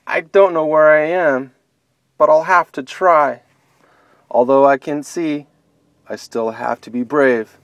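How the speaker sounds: brave little bunny. Acted. Lost bunny bracing herself to go on, hopeful resolve. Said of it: "then said with a sigh".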